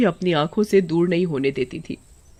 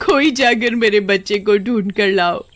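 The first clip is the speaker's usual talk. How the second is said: crying mother. Acted. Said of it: "कोमल का रो रो कर बुरा हाल था".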